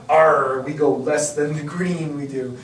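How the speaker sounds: lightly voiced slow pirate; a hint of a pirate captain. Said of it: "stop with that pirate voice now".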